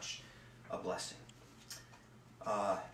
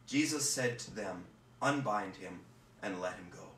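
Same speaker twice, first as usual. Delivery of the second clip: measured, reverent gospel reading; scripture reading. Acted. Reader proclaiming John to the congregation, reverent and measured. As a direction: read the passage to the congregation with care.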